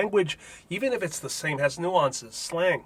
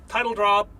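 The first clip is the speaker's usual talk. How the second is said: pleased announcement; 6 semitones higher, 7 dB louder than usual. Acted. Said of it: "you like how I tied that in".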